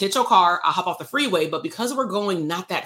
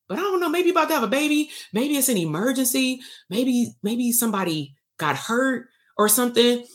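higher-pitched imitation of someone reconsidering; driver softening; 6 semitones higher than usual. Frustrated driver guessing why the woman cut them off, softening. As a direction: think up excuses in a higher voice.

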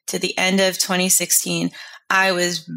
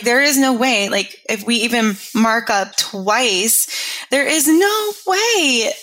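retold disbelief; 3 semitones higher than usual. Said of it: "And I was like".

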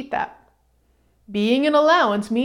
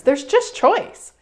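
slow, lingering statement; slow emphasis; 7 semitones higher, slower than usual. Real, not acted. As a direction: let it land slowly. Emphatic teaching point.

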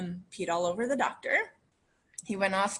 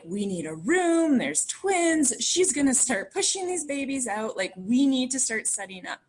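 urgent staff call; 5 semitones higher, 4 dB louder than usual. Retold or imitated. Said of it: "it was just loud".

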